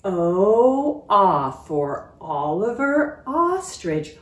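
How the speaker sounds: slow chanted cheer, loud start. Shown as a demonstration. Teacher leading the letter cheer, slow chant. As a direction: cheer it out slowly for the kids. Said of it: "This is his cheer".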